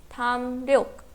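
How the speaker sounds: "tham ryok" with an R after the M; pronounced as spelt. Shown as a demonstration. Teacher reads next example, "tham ryok" with written R. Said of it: "with leer".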